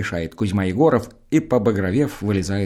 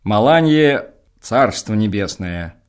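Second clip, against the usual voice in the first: slow, louder brush-off; slow dismissal; 6 dB louder, much slower than usual. Acted. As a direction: drag out the words, waving it away. Староста отмахивается. (медленно и громче, отмахиваясь)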